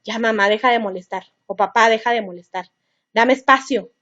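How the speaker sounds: a lightly voiced irritated teenager telling mom to stop; annoyed teen. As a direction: brush off the parent with mock annoyance. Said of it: "lo que va a hacer es".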